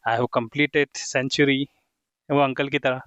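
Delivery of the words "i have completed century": slow model sentences; slow dictation. Shown as a demonstration. Teacher modelling names for students, slow and deliberate. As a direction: spell it out slowly for beginners.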